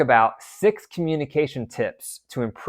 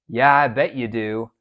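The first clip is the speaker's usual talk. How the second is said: sarcastic remark; 2 semitones lower than usual. Retold or imitated. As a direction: toss it off with a light sneer. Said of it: "Those are sarcastic comments".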